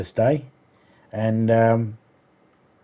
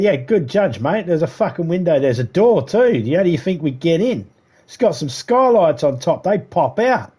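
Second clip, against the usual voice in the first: higher-pitched smart-ass retort; sarcastic; 5 semitones higher than usual. Retold or imitated. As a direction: explain the obvious with mocking sarcasm. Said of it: "I can become a little sarcastic at times".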